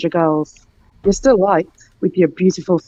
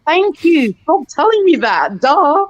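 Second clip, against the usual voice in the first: higher, sing-song mock delight; mock airhead; 5 semitones higher than usual. Teasing racists who call her names, playing dumb. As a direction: play dumb and pleased. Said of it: "I was like".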